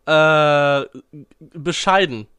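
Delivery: tonsillitis-muffled voice; swollen tonsils voice. Real, not acted. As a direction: talk through sore swollen tonsils. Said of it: "klingt bescheiden".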